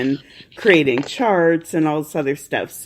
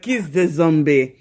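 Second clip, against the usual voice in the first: mock Caribbean accent, cartoon-crab style; badly faked Jamaican accent for a friend; Ariette impression. Host imagines friend pushing the zombie show, mock accented impression. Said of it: "Ariette is like".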